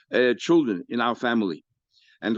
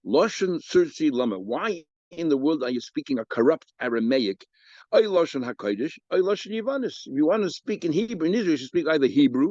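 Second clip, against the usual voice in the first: lamenting rebuke; 5 semitones higher than usual. Retold or imitated. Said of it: "Rebbe said".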